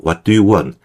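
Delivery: "what do you want" word by word; slow careful reading. Shown as a demonstration. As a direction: read "what do you want" slowly, every t pronounced. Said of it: "천천히 읽으면".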